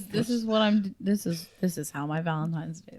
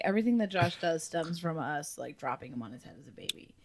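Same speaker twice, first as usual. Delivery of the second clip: quiet mocking quote; 4 semitones lower, 8 dB quieter than usual. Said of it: "they were like".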